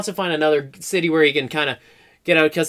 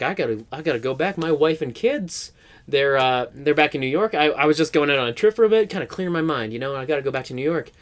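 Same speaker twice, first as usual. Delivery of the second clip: soft, lower, mildly wistful; subdued goodbye; 3 semitones lower, 3 dB quieter than usual. Retold or imitated. Rat telling cowboy he must go home, subdued reluctance. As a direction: break it to him gently, understated.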